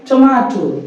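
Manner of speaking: टमाटो, long open "maa"; corrected pronunciation. Shown as a demonstration. Teacher repeating the answer for students, corrected. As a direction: land on the middle of टमाटो. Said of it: "क्या बोल रहा है".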